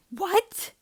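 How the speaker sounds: high loud startled question; shocked. Acted. Luke hearing the cockpit is burning, startled. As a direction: jolt of panic.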